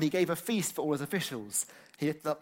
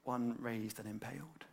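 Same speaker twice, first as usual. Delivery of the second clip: dropped, softer contrast; 7 dB quieter than usual. Shown as a demonstration. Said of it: "both their heads are raised up".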